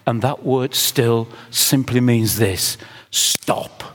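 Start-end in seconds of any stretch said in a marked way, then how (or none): 3.1-3.8 a sudden whispered command. Shown as a demonstration. Preacher to congregation, whispered stop. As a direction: drop to a bare whisper to stop them. Preacher hushes the word still.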